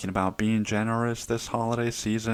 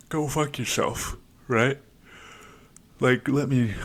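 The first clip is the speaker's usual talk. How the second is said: irritated retort; 6 semitones higher than usual. Retold or imitated. Snapping at brother woken early.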